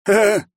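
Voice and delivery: a high laugh he can't hold back; sudden high mocking laugh; burst of laughter. A narrator's reading. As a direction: laugh out, unable to resist. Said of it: "не удержался Пузан".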